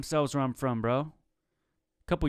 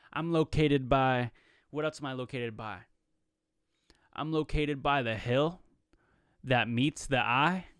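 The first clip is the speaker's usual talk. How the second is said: mock spiritual answer. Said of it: "someone spiritual where they're from".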